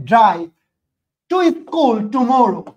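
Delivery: each word slowed right down for writing; slow dictation. Shown as a demonstration. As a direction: read it out slowly so students can copy. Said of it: "they".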